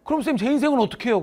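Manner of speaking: high, loud shocked gasp then plea. Retold or imitated. Student gasps at teacher's blunt answer, shocked. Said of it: "그러는 거야".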